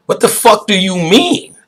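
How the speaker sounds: high incredulous question. Retold or imitated. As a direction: cut through the nonsense, baffled. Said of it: "mock challenge to deep talk".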